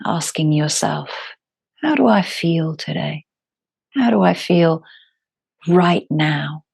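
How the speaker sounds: calm, unhurried yoga teacher with long pauses; guided meditation. Acted. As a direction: guide them gently into their breath, phrase by phrase.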